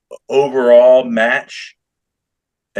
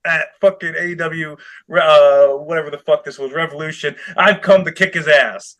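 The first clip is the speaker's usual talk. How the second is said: put-on imagined kid wrestler; 4 semitones higher than usual.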